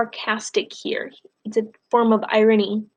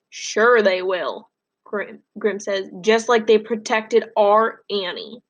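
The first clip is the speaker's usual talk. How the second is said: sarcastic grandfather; slower than usual. Acted. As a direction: drag it out with bitter sarcasm. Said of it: "Grim is being sarcastic here".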